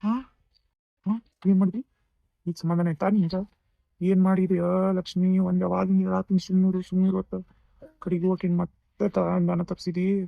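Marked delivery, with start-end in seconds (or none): 1.5-5.4 loud, furious scolding of his sister; furious brother yelling at sister; angry outburst. Acted. Brother scolds sister, mother fainted. 5.4-7.4 angry scolding. Acted. Brother scolds sister.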